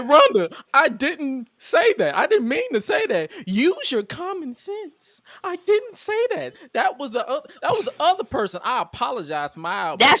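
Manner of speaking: mock backpedaling apology. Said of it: "Adam Pearce apologizing".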